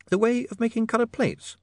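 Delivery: put-on bright, high, curious young lady; an eager young woman asking. A narrator's reading. Sacharissa speaks.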